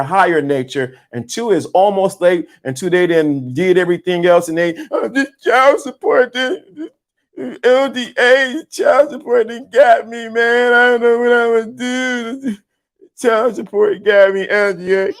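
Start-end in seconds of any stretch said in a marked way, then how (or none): 4.9-15.1 hammed-up crying that builds to a shriek; mock crying wail. Mocking a man broke by child support, building fake sobs.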